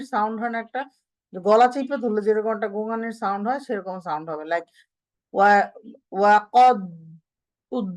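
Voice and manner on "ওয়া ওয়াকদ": ওয়াকদ with a strangled groaning দ; istitala groan. Shown as a demonstration. Teacher demonstrating the groaning dal sound. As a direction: groan the দ in ওয়াকদ as if the throat is squeezed. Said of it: "এরকম sound হচ্ছে".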